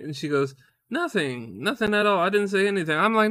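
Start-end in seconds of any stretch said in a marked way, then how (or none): 0.9-3.0 imitated wife. Wife playing innocent to her husband, imitated high voice. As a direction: deny it all in a raised imitation voice. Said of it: "she's laughing at this point".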